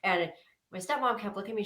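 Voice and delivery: ordinary delivery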